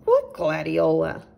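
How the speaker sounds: a gentle host offering milk; a hint of a friendly little chipmunk; Nigel the chipmunk. A narrator's reading.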